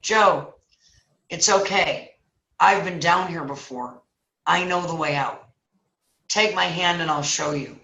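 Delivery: measured, settled phrases with pauses; calm reassurance. Acted. Friend who knows the way out, acted calm reassurance. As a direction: drop from the frenzy and soothe him.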